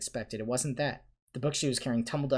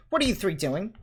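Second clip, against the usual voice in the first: high, loud sudden question; ringing out; 9 semitones higher, 7 dB louder than usual. A narrator's reading. McGonagall catching three pupils in the hall, ringing out. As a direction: ring it out as if across a hall. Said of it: "a voice suddenly rang across the hall".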